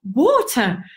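imitating the grandad's horror at the idea; mock horrified.

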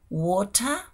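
"water" as "wo-ta", crisp t and no final r; variant pronunciation. Shown as a demonstration. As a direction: say "water" slowly, dropping the final r. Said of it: "se pueden decir de diferentes maneras".

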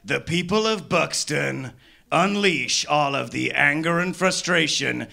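movie trailer voice. Pretend. Ominous Purge trailer parody.

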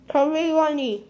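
words mashed by a packed mouth; cheeks stuffed full. Real, not acted. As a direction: barely get it out, cheeks stuffed.

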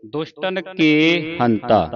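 ਕੇ drawn out as "kay", never "ki"; slow reading with a long open ਕੇ; long E vowel. Shown as a demonstration. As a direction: hold the vowel of ਕੇ in the slow phrase. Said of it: "ਕੱਕੇ ਲਾਂ ਹੀ ਬੋਲਣੀ ਹੈ".

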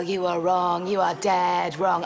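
low, deliberate contradiction; slow down on the final denial; defiant. Acted. Defiant answer to friends' doubt.

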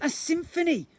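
excited slime creature; grand announcement. Acted. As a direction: announce it like a magic reveal.

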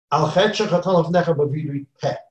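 quick, hollow rattle of the prayer; a mildly rushed, empty-sounding confession; insincere confession. Shown as a demonstration. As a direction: say it fast and only half meaning it. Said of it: "I'm confessing to you in an insincere way".

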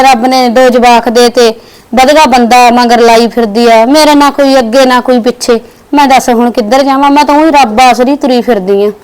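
a wronged woman sighing out her sorrows; tearful self-pity. Acted. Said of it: "ਬਾਹਰ ਬੈਠੀ ਰੋਈ ਜਾਂਦੀ ਆ". (ਉਦਾਸ ਰੋਣਹਾਕੀ ਆਵਾਜ਼)

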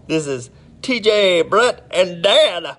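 high, slow mock Irish accent, half-failed; imitating an Irish voicemail greeting, slow. Streamer recalls old answering machine message, mock Irish accent. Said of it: "It's like an Irish voice".

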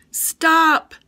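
sharp high shout of alarm. A narrator's reading. Liz warning the baby away from spines, alarmed shout. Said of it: "Liz called".

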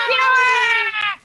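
high, loud, slow mock plea; drawn-out wail. Player echoes a plea to be spared, wailing. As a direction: wail it out in exaggerated protest.

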